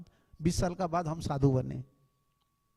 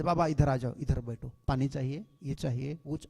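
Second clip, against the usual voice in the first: soft, lower courteous offer; gentle servant; 3 semitones lower, 4 dB quieter than usual. Retold or imitated. Office servants politely welcoming the guest monk, soft and gentle. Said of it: "वो इतना कोमल से बोल रहे थे".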